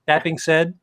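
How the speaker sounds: amused, rising read with laughs; reading a snarky review aloud. Acted. Reading his own snarky review to friends, amused. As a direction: read a mocking review, enjoying each jab.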